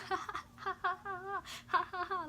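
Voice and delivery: high nervous mock laughing; giddy, shaky laughing after a near crash; nervous laughter. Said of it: "My first initial reaction was to laugh".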